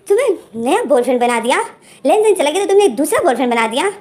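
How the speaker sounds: half-hearted disbelief; mock shocked mother. Mother hearing her son has a new boyfriend, mock shocked.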